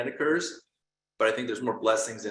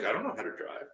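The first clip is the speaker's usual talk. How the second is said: softer, hesitant protest; timid reply; 7 dB quieter than usual. Pretend. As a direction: murmur it, unsure you can. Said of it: "You might be like".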